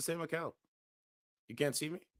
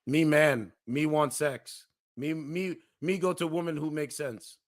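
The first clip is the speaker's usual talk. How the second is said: simple brute caveman talk; 2 semitones higher, slower than usual. Acted. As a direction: grunt it like a dim caveman. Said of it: "That's my caveman impression".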